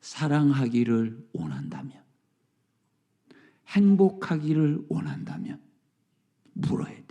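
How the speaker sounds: breathy whispered appeal; hushed plea. Acted. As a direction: drop to a near whisper to draw them in. Preacher drops to a whisper.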